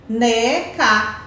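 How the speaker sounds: boneca stretched slowly syllable by syllable; slow, drawn-out boneca. Shown as a demonstration. Teacher slowly models boneca so children hear each syllable. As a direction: draw out boneca slowly for the kids.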